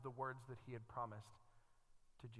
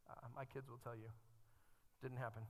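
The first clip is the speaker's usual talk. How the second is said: ordinary talk, nothing marked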